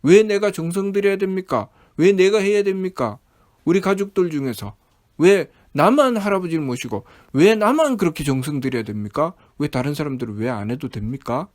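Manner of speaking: acted aggrieved questioning; mildly hammed-up complaint at being singled out; resentful protest. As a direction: press each question like an imitated grievance. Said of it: "라고 원망하죠".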